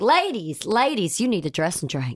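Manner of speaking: put-on Kentucky Southern accent. Quoting a friend's Southern mother from Kentucky: imitating a Southern Kentucky mother. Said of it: "so Southern. And she is always like".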